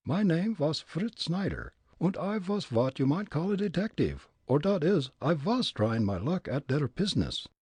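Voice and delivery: put-on high, comic German-accented Fritz; thick immigrant German accent, pitched high. Fritz sizing up the old man, German accent.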